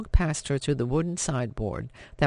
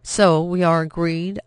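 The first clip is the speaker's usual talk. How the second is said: firm declaration; 3 semitones higher, 6 dB louder than usual. Acted. Daughter asserts firmly.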